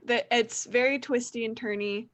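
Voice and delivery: usual speaking voice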